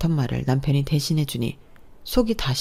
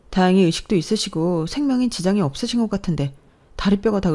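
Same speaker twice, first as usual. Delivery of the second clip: higher, hurried worried plea; urgent alarm; 4 semitones higher than usual. Acted. Wife phoning sister-in-law about the accident, urgent. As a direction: rush the news out anxiously.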